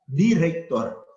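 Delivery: drawn-out director with a Creole e ending; spelled-out pronunciation. Shown as a demonstration. Teacher drawing out director for the class. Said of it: "A escribir director".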